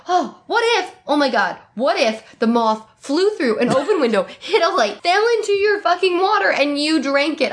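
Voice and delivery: high, breathless mock theory with laughter; laughing mock discovery; mock excited theorizing. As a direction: rattle it off like a wild conspiracy. Mocking characters' convoluted reasoning.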